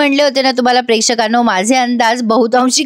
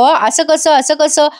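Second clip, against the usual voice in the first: higher-pitched retold objection; mock yelling; 4 semitones higher, slower than usual. Sarang interrupts the judges to object, mock yelling. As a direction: butt in with an imitated protest. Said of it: "Sarang मध्ये ओरडतो".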